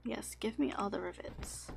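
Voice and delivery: breathy greedy whisper for loot. Real, not acted. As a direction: whisper it like a miser. Greedy whisper while looting.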